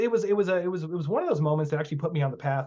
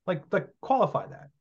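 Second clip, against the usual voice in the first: high, baffled what do you mean; playing his own stunned reply, pitched way up; mock incredulous retort; 5 semitones higher than usual. Retelling being called entitled, high incredulous retort. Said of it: "I was like".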